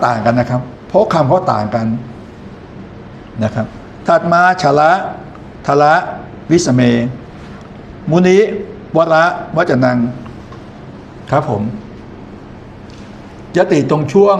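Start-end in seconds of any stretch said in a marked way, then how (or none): 4.6-6.8 "ชละ", "ทละ", "วิสเม" with pauses between; paced by word. Shown as a demonstration. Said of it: "อ่านเว้นจังหวะให้เหมาะ". 8.1-10.0 "มุนิ", "วระ", "วจนัง" as separate groups; paced by word. Shown as a demonstration. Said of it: "อ่านเว้นจังหวะให้เหมาะ".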